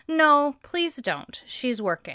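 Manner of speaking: slow, patient no; calm firm no. Retold or imitated. Quoting the calm owner refusing her, slow and patient. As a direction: hold the line kindly. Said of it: "He just says".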